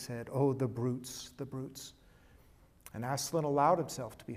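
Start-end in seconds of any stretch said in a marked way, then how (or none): 0.3-1.3 tearful cry. Acted. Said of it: "with tears pouring down her cheeks". 1.4-1.9 softer tearful echo. Acted. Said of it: "with tears pouring down her cheeks".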